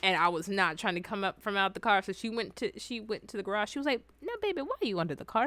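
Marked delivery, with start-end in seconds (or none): 4.2-5.4 high, quick coaxing voice; mock coaxing. Grandma to child under the car, mock coaxing.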